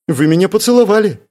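вдруг, выше и громче, выпаливая; выпали это внезапно; выпалила. A narrator's reading. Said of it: "Внезапно выпалила она". (внезапно выпалила, выше и громче)

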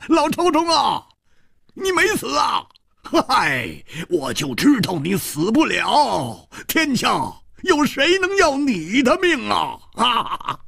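high, gleeful teasing; laughing joyfully. Acted. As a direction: rib an old friend who cheated death. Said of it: "大笑着说".

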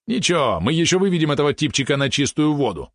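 high, stretched, mocking yap; Валерон yapping. Small companion scoffs at the naive lad, yapping. Valeron's lines voiced in narration.

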